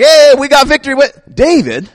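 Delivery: high, indignant king outraged at being upstaged; high-pitched affronted huff; jealous king. Retold or imitated. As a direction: play the offended king, voice jumping up. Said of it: "was like".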